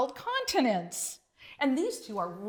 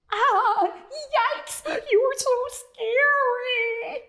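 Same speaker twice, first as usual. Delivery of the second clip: much higher, loud, dragging fright; scared little frog; 12 semitones higher, 4 dB louder, much slower than usual. Acted. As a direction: cower and wail at the big dog.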